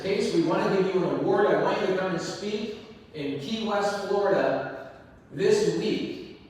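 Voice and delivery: bright, eager pitch lift as the caller; imitating an excited caller; excited invitation.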